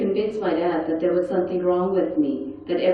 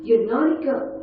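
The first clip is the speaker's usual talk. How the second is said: higher, sharper repeat of the scolding; naughty punched; scolding nurse; 5 semitones higher than usual. Retold or imitated. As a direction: scold her a second time, pressing harder. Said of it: "She goes".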